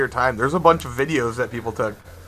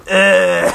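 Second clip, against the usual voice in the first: imitated noise; 3 semitones higher, 5 dB louder than usual. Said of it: "and he's going".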